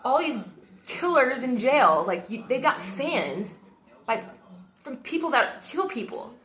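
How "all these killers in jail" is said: sing-song mock of a killer's fan, pitched higher; mocking quote. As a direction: sneer at them lightly. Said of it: "all these people that are like".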